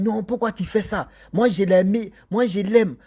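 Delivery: a retold girl's heated protest; angry protest. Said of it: "Elle s'est mise en colère".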